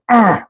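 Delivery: imitated straining grunt; short mimicked grunt of effort; effortful grunt. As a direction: grunt like someone working at something. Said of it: "I'm hearing him going".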